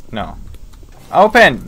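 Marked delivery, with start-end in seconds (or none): 1.1-1.6 commanding shout. Pretend. Commanding the door.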